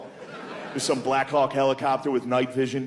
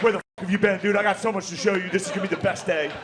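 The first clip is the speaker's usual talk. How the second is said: put-on eager excited kid; 5 semitones higher, faster than usual. Excited Down syndrome kid voiced.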